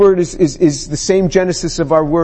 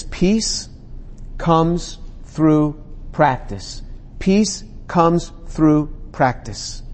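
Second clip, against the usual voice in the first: slow emphasis; 5 dB quieter, much slower than usual. Acted. Preacher drives home key phrase.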